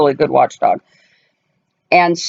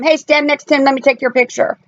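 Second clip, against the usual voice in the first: mom snapping photos; 8 semitones higher than usual. Retold or imitated. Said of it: "we do it all the time".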